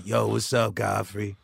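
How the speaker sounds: lightly imitated friend's greeting; a hint of a buddy's casual hello; Dion Cole. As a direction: do a low-key impression of a comedian buddy. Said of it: "I used to imitate Dion".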